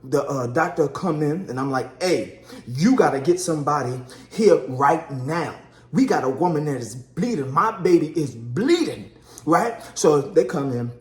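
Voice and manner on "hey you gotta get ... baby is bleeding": word-by-word retold insistence; acted urgent plea, heavily stressed; emphatic demand. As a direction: punch each key word at the doctor. Husband demanding help from doctor.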